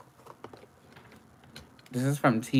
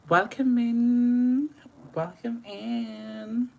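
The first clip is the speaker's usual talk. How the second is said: high, slow stretched welcome in; singsong welcome; 11 semitones higher, much slower than usual. Acted. To Olajo, greeting her again, a high slow singsong welcome. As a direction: sing the welcome out.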